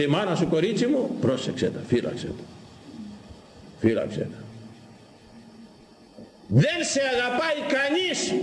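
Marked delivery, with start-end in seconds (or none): 1.2-4.4 whispered urging. Acted. Priest urging the congregation. 6.5-8.4 high ringing cry to the whole church; shouted out. Real, not acted. Priest crying out to the congregation that nobody loves them more. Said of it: "Το φώναξα".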